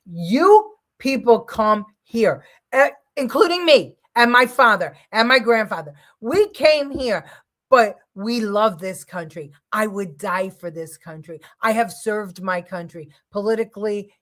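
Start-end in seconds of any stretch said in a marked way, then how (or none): 0.0-9.5 real anger. Real, not acted. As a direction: lay into them, word by word. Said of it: "but I'm just so pissed".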